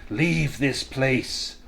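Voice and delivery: put-on slow, hissing wraith with an odd accent; hissing voice with strange accent. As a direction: hiss it out slowly in a foreign lilt. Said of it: "speaking in a hissing voice and a strange accent".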